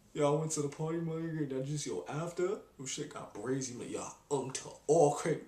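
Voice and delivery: lightly voiced party boy bragging; a hint of a kid bragging about a party; mock slang boy. Trying to sound like the kid from the center, lightly put on. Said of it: "I can't even do that".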